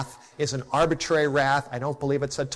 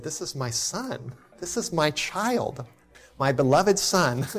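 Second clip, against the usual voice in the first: tender awe. Retold or imitated. Father marvels at son.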